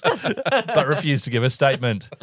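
slow, composed newsreader; deadpan news read, with a chuckle; news anchor voice. Acted. Retake of news line.

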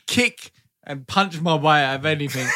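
giggling through the words; fighting back laughter; laughing. Real, not acted. Cracks up mid-sentence.

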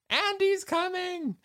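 high drawn-out alarm; imitating a toy's panicked warning; Andy's coming. Quoting Toy Story alarm call.

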